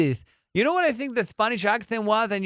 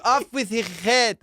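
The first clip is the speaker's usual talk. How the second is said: P=A; royal command; 4 semitones higher, 3 dB louder than usual. Retold or imitated. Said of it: "I'd be like".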